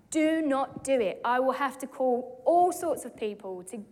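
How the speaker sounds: slow, firm stern nurse warning. Retold or imitated. Nurse warning the mother not to ask again, stern and slow. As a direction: lay down the rule firmly. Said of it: "the nurse had said".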